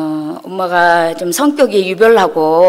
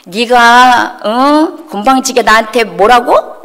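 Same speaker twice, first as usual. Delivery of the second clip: indignant retold challenge with a raised "어?"; imitated angry outburst; 3 semitones higher, slower than usual. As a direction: mimic an outraged mother scolding. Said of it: "이러면서 막 난리를 치시는 거".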